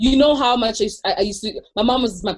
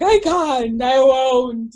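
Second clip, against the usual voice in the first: stubborn refusal; 3 semitones higher, 8 dB louder, much slower than usual. Retold or imitated. To the therapist, a loud stubborn refusal. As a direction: dig in and refuse like a kid. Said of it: "And I was like".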